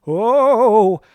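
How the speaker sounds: a crowd gasping as someone sways; startled onlookers. Retold or imitated. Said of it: "people are going".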